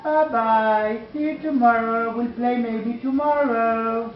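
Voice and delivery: cheerful bird goodbye. Acted. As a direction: wave the beetle off brightly as the little bird. Bird says goodbye again.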